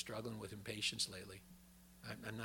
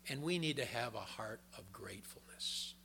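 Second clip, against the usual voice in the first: whispered; 2 semitones lower, 5 dB quieter than usual. Real, not acted. Intimate sermon point.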